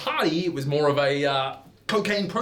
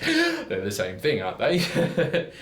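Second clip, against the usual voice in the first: laughing; much slower than usual. Acted. Laughing reply in story.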